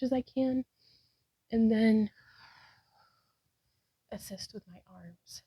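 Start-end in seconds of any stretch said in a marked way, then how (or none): 4.1-5.4 breathy whisper. Real, not acted. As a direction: whisper under effort. Effortful lift mid-pose.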